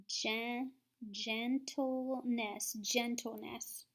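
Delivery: gentleness stretched out slowly; slow sounding out. Shown as a demonstration. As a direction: blend gentleness syllable by syllable. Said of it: "So I would read that as".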